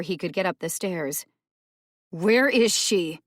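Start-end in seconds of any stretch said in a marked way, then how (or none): 2.1-3.2 hissed. A narrator's reading. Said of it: "she hissed".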